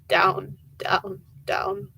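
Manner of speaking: breathy whisper, fading away; softly whispered descent, trailing off. A narrator's reading. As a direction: whisper it as if sinking out of sight. Sinking downward in the story.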